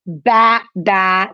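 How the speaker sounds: two short, separate baas; sheep baa. Shown as a demonstration. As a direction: imitate a sheep simply for a child. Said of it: "cómo hace la oveja". (balido de oveja sencillo)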